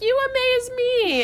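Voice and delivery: woman echoing his compliment on the phone, giddy. Retold or imitated. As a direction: gush it back at him. And it's so cute.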